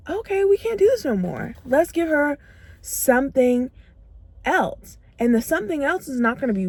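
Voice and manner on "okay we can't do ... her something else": brain's voice. Pretend. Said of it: "your brain will say".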